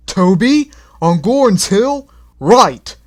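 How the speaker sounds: high, loud brisk boss voice; startled phone call; surprised Fat Controller. A narrator's reading.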